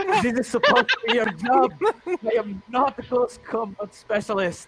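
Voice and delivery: very high, loud yell. A legionary who just dodged a creature calls to two nearby legionaries, yelling. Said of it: "I'm going to yell to the other two legionaries".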